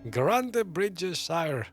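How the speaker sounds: Grantebridge Shire said slowly and deliberately, each syllable placed; careful pronunciation. Shown as a demonstration. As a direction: carefully sound out Grantebridge Shire, taking your time. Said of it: "I think I pronounced it correctly".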